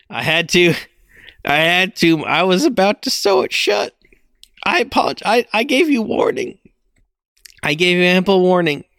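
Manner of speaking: talking around an ice cube; ice in mouth. Real, not acted. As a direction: speak with ice in your mouth. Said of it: "I need to put an ice cube in my mouth".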